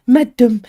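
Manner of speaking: "madam" with a long, held d, said loud and high; Cockney madam. Shown as a demonstration. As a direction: drag out the d in "madam" like a Cockney maid. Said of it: "she says".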